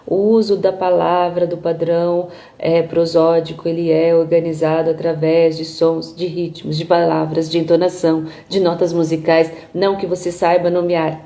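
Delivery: low, even monotone with no intonation; robotic monotone. Shown as a demonstration. Teacher shows speech without developed prosody, robotic monotone. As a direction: speak like a machine, pitch pinned low. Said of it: "eu não falo assim com vocês".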